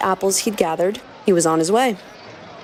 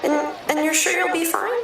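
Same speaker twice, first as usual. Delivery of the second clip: higher, soft worried younger brother; 9 semitones higher, 3 dB quieter than usual. Acted. Narrator voicing Al warning his brother, high and worried. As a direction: plead gently, a little anxious.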